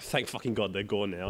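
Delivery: soft, under-the-breath relief; muttered relief. Retold or imitated. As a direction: mutter it like a private sigh.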